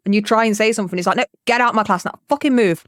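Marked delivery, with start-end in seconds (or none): 1.2-2.9 quick, slightly raised imitation of a telling-off; lightly voiced teacher ordering someone out; mock stern teacher. Retelling a teacher throwing out a talking student, mock stern.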